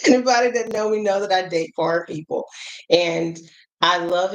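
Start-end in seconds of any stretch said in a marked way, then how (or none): 0.1-2.4 higher, just after a laugh; amused admission. Real, not acted. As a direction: repeat it amused, coming out of a real laugh. Amused repeat after laughing at herself.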